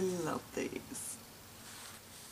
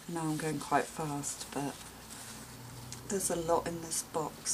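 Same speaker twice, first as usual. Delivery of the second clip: ordinary talk, nothing marked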